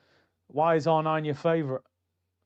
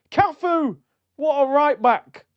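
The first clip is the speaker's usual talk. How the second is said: high, loud mock gush, slowed; mock starstruck; 10 semitones higher, 6 dB louder, slower than usual. Streamer mocking his own starstruck self, hammed-up high gush. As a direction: send up your own fanboy moment.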